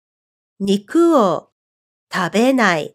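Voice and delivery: slow, syllable by syllable; slow demo. Shown as a demonstration. Teacher slowly modeling the negative ending. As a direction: spell it out slowly for learners. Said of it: "go like this".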